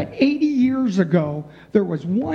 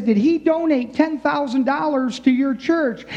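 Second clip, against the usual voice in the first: higher-pitched, pushy caller voice; IRS caller; 6 semitones higher than usual. Retold or imitated. Preacher's joke, IRS agent grilling priest, higher pushy voice. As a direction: press the priest like a nosy tax agent.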